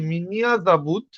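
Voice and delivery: slow, careful মিনিয়া জাবুত; slow demo. Shown as a demonstration. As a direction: model the answer slowly. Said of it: "উচ্চারণ হবে মিনিয়া". (ধীরে উচ্চারণ)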